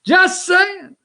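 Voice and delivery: very high, mock-innocent voice; hammed-up high-pitched repeat of the excuse; exaggerated disclaimer. Real, not acted. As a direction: squeak it out in cheeky innocence.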